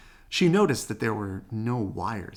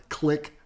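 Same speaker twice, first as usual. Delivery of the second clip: camera click; 5 semitones higher, 5 dB louder than usual. A narrator's reading. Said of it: "said the camera".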